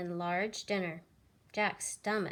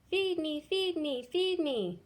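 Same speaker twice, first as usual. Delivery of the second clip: much higher, louder begging duckling; crying hungry duckling; 7 semitones higher, 5 dB louder than usual. Acted. Hungry baby duck begs Jack loudly for food. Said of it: "cried the hungry baby duck".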